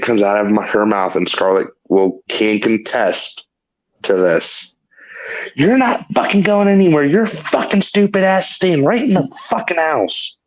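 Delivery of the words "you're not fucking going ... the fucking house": higher-pitched mock scolding; angry retold order. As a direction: imitate a partner angrily forbidding it. Retold partner forbidding him to leave.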